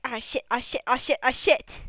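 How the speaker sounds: quiet muttered cursing. Acted. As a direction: mutter the curse over and over under your breath. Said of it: "Mad Lad is just like".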